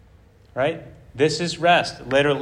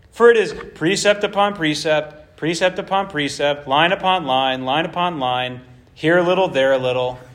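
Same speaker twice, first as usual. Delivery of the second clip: mocking singsong. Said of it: "They're mocking his message".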